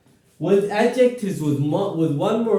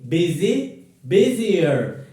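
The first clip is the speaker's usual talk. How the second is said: "Busy" rising, then "busier" falling; model for repetition; 4 dB louder, slower than usual. Shown as a demonstration. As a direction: say it clearly for them to repeat. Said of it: "Repeat after me".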